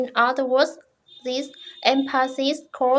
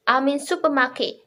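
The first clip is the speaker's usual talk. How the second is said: quick answer with "supermarket" stressed as the new information; 3 dB louder, faster than usual. Shown as a demonstration. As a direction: punch "supermarket" to answer the question. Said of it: "The first answer stress supermarket".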